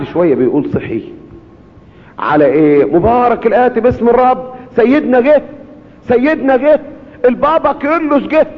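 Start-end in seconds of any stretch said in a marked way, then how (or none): 2.8-8.5 high, rising excited cry; excited calling out. Retold or imitated. A man waking up, calling to his household that the pope came. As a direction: announce joyfully that he came.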